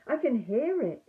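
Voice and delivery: anxious. Acted. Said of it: "said Piglet anxiously".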